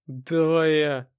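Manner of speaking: very slow, loud offer; eager volunteer. Acted. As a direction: step in as a dim thug volunteering. Dim thug volunteers eagerly. (медленно и громко вызываясь)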